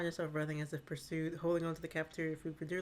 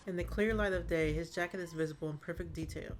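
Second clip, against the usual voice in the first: story narration. A narrator's reading. GM scene narration.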